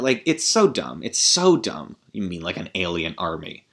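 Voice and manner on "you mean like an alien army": mock repeat. Repeats line mockingly, deflated.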